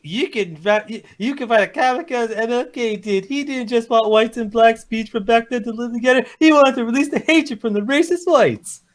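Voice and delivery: slow, put-on voice of a poster; mock impersonation, drawn-out words; imitated voice. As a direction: read it slowly as someone else. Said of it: "I'll try to imitate the voice".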